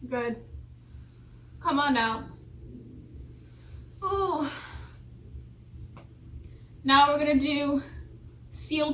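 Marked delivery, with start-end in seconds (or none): 4.0-4.5 sore muscles. Real, not acted. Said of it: "Oh, I'm so sore".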